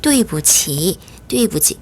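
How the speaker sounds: 对不起 with 不 light and toneless; neutral tone on 不. Shown as a demonstration. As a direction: keep the middle 不 of 对不起 short and unstressed. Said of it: "경성으로 발음을 합니다".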